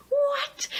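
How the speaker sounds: very high, stretched mock shock; shocked disbelief. Viewer reacting to the twist ending, shocked.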